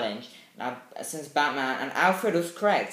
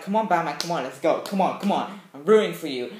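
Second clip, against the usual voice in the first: raised, urgent rooting; re-enacted cheering on; 3 semitones higher, 6 dB louder, faster than usual. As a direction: egg the hero on like a fan. Reliving urging on the hero.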